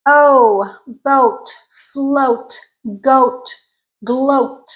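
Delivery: "boat, float, goat, gloat" with tense oh; tense rounded oh. Shown as a demonstration. Teacher modelling mid back vowel, tense rounded oh. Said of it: "It's a tense sound".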